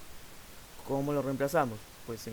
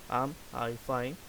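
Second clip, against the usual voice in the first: slow model question; much slower than usual. Shown as a demonstration. Teacher models question slowly.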